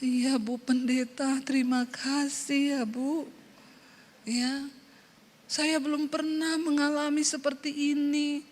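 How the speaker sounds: soft, gentle thankful voice; softened gratitude. Retold or imitated. Congregant thanks the pastor after prayer, softly. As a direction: let her melt into grateful calm. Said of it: "berubah dia bilang".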